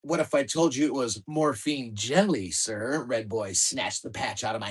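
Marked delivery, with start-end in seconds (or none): 0.0-3.0 put-on British accent. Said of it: "in my best stuffy British accent".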